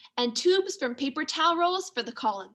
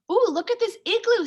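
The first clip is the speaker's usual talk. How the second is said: delighted ooh; 9 semitones higher, 5 dB louder than usual. Acted. Sarah delighted by igloo.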